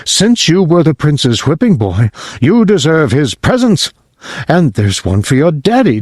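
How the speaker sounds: lightly voiced jolly Santa note; reading Santa's note. Father reading Santa's note aloud, lightly voiced. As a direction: read it out a bit brighter. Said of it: "It says".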